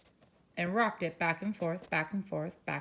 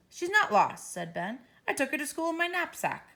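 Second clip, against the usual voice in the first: put-on child; 8 semitones higher than usual. Ben answers mother.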